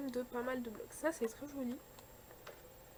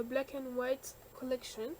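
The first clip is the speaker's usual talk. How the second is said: French accent on English. Real, not acted. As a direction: say the English name the French way, unpolished. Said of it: "On adore mon accent".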